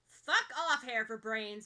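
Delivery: loud irritated brush-off; loud grumbling insult at his friend; annoyed grumble. A narrator's reading. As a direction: swat him away with words. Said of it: "Bakugo grumbles".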